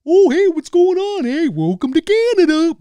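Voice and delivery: high, loud hammed-up dim-witted Canadian; dopey Canadian accent. Mocking cartoon Canadians, dopey Canadian accent. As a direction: sound like a cartoon Canadian with the IQ of a donut. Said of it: "sound like we have the I Q of a donut".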